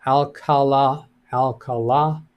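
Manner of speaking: "Alcala" sounded out, leaning on the final "la"; deliberate "Alcala", emphasis on the closing "la"; stress on last syllable. Shown as a demonstration. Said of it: "with emphasis on the last syllable".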